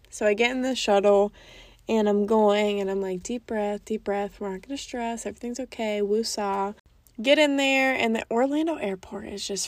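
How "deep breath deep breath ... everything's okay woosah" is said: soft, hushed self-talk, breathing it out; self-calming. Retold or imitated. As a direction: talk yourself down quietly, a touch mock-serene. Calming herself before the shuttle.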